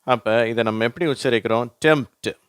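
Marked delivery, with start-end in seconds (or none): 1.9-2.4 "டெம்ப்ட்" said as temt; higher, clear "டெம்ப்ட்", no p; silent P. Shown as a demonstration. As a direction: model "டெம்ப்ட்" with m straight into t. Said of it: "அந்த பீன்ற உச்சரிப்பு வரதில்லை".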